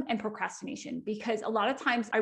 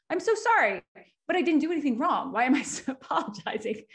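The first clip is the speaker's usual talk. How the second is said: mock over-apologizing; 4 semitones higher, 4 dB louder than usual. Mimics own habitual over-apologizing.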